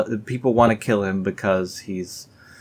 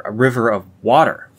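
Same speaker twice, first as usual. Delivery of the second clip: louder, sarcastic "A river of water"; mock emphasis; 3 semitones higher, 7 dB louder than usual. Shown as a demonstration. Mocking the phrase for viewers, sarcastic emphasis. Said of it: "Very different from the usual kind of river".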